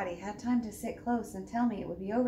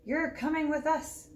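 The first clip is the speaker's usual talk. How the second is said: pirate voice; 6 semitones higher than usual. Acted. Pirate captain orders.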